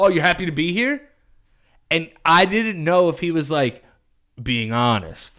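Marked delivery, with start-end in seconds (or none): 0.0-1.1 mocking, dry, sarcastic tone. Retelling what a very sarcastic man said back to them, retelling a sarcastic reply. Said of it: "he's very sarcastic".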